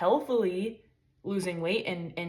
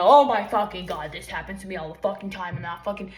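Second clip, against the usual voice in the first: mock stubbed-toe outburst; 5 dB louder than usual. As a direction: act out overblown rage at a tiny mishap. Acting out rage at stubbed toe.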